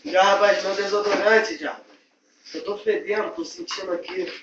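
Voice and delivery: loud commanding call; bossy shout. Acted. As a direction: yell for the deodorant. Boss shouting for his deodorant.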